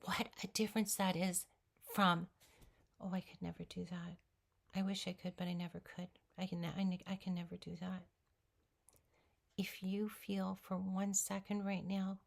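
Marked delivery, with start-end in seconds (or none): 3.0-8.0 defeated. Pretend. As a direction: let it sink, giving up. Voicing defeated self-talk.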